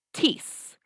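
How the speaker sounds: "this" as "tees", stressing the vowel; strong I. Shown as a demonstration. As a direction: give "this" a firm Spanish I. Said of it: "hago más fuerza en la I".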